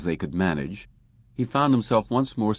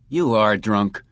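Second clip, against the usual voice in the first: withering; 5 dB louder, slower than usual. Acted. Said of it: "Kirsten said witheringly".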